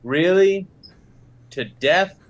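high, hammed-up astonishment; mock surprise. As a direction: overplay the shock for laughs. Mock reaction to the Oracle.

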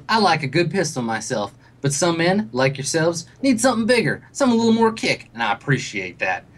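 lightly voiced confiding dealer; a hint of man-to-man sales pitch; country salesman. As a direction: sell it with folksy swagger. Plays the salesman.

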